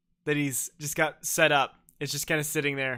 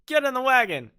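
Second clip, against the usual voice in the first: bossy command; 10 semitones higher, 8 dB louder than usual. Retold or imitated. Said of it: "Happy Man says".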